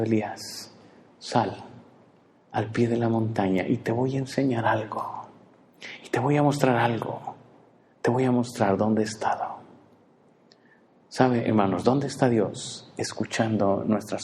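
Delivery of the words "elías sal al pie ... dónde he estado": softer, gentle invitation; tender God. Retold or imitated. God embracing Elijah, softly inviting him outside. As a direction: coax him out kindly. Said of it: "abrazándonos y diciendo".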